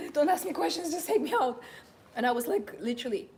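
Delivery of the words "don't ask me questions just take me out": laughing, louder and higher brush-off; laughing plea. Retold or imitated. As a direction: laugh it off while begging to leave. Retold brush-off to young guy.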